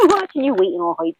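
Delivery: high-pitched, amused laugh through the words. Real, not acted. Reader teasing a client about waiting all hype, laughing. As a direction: laugh as you tease them.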